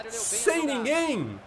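drawn-out, deflated wail; slow stunned disbelief. Real, not acted. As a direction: stretch it out in dismay. (lamento arrastado)

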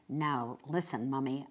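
hushed, earnest reproach; quiet admonishing. Acted. Child silently warns mother, quiet and firm.

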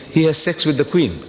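usual speaking voice

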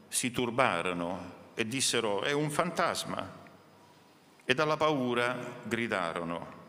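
measured solemn Bible reading voice; scripture reading. Acted. Pastor reads Matthew to the congregation, solemn reading. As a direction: read the Gospel aloud to the church, unhurried.

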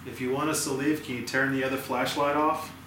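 talking to a ghost. Real, not acted. Louder plea to the spirits.

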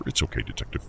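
gently calm a panicking man; soft voice. Acted. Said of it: "asks in a soft voice".

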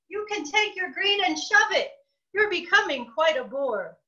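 high, heated yelling. Acted. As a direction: yell at the pushy bird. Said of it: "now I was yelling".

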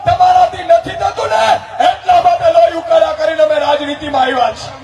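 rally speech. Acted. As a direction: rouse the crowd like a campaign orator.

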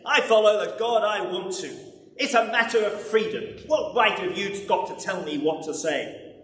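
king brushing off the prophet, heated; defiant king. Acted. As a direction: rattle it off in proud defiance. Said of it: "snapped Ahab".

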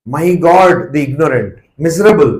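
drawn out word by word, "my God the ignorant" stretched very slowly; slow, weighty lament of "miserable"; very slow emphatic quote. Retold or imitated. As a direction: let each word of "the ignorant" sink in slowly. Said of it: "কিন্তু স্বামীজি বলছে".

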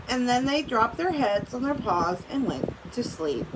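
reading a story aloud to the class; steady read-aloud for students; story narration. A narrator's reading. Teacher reading a storybook to her class, read-aloud voice.

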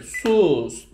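"sus" held evenly, then stop; one-beat rest. Shown as a demonstration. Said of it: "Yani şöyle".

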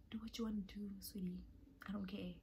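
soft, breathy brush-off; dismissive. Retold or imitated. Brushing off the roommate, soft dismissive murmur. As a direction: shrug it off sweetly, quietly.

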